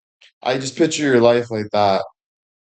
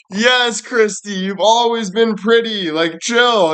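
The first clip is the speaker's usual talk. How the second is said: mock exasperated friends; 8 semitones higher, slower than usual. Friends reassuring Christy, mocking.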